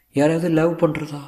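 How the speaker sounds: high-pitched questioning voice; Sulekha. Acted. Actress asking her tutor about love, high character voice. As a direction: lift the voice into a tentative question.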